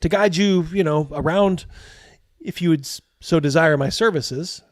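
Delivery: a lightly voiced eager boy; a twelve-year-old guide offering his services. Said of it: "He's like".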